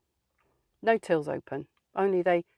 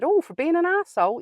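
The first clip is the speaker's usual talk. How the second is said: sarcastic jab; 11 semitones higher, 5 dB louder than usual. Retold or imitated. Sarcastic retort to manager.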